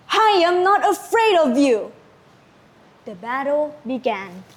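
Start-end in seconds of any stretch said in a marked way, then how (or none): 0.1-1.9 higher, defiant declaration; defiant shout. Acted. Lagaligo defies the serpent, a defiant shout. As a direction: stand up to the monster. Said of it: "and shouted".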